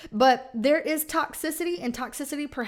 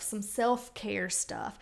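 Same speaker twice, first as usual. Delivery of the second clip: usual speaking voice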